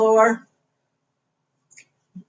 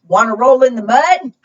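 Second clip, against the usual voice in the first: quick, high, louder question; storybook pig; 4 semitones higher, 7 dB louder than usual. Acted. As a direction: lightly voice an eager pig. Reader voices the pig's question.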